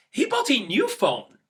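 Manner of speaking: slow, bright happy read; pleased for your friend; happy news read slowly. Shown as a demonstration. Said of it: "in a happy tone".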